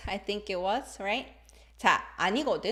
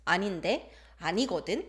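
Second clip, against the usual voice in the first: 아닌데 and 아니거든 both turned up at the end; rising intonation; 2 semitones lower, much faster than usual. Shown as a demonstration. Teacher demonstrating playful contradiction, rising intonation. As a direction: lift the final syllable of 아닌데 and 아니거든, teasing. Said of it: "When you raise the intonation at the end".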